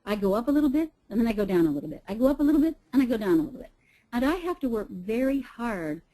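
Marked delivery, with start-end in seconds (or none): 0.0-3.7 up-and-down pattern. Shown as a demonstration. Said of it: "that little line going up".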